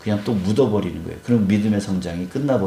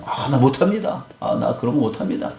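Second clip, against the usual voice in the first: mock protest, starting higher in pitch; lightly acted refusal, pitched up then easing; retold protest; 4 semitones higher than usual. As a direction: imitate a reluctant man objecting. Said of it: "이렇게 반항하는 그 기드온에게".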